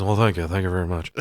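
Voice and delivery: lightly voiced bad celebrity impersonator; poor mock thanks in the style of a famous singer. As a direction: do a half-hearted catchphrase of a famous singer. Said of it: "This guy is also not good at being a famous singer".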